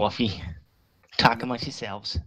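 put-on New York accent slipping into Boston; attempted Boston accent. Redoing the coffee joke for friends, wobbly Boston accent. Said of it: "Now you're using a Boston accent".

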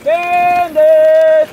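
high, loud yell across a field; calling the dog. Real, not acted. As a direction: holler for the runaway dog.

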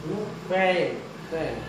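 ordinary talk, nothing marked

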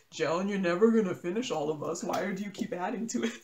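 lightly voiced taunt breaking into a laugh; gentle mock scolding; mocking stash. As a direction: tease as the stash scolding its owner. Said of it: "like, mocking you and be like".

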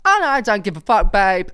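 hammed-up Welsh lilt, brash and carefree; Welsh accent impression. Mocking the Welsh friend popping bottles, in a Welsh accent. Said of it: "Don't know what accent that was".

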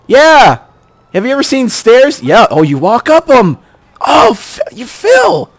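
mock cheering, high and bright; sarcastic praise. Real, not acted. Gamer mocks AI partner climbing stairs, sarcastic praise. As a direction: cheer him on with heavy sarcasm. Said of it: "progressing leaps and bounds here".

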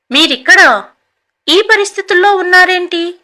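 mildly astonished question, pitch lifting; surprised. A narrator's reading. Son-in-law finds his mother-in-law among the destitute, mildly surprised. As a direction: ask it with a touch of surprise. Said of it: "అన్నాడు ఆశ్చర్యంగా".

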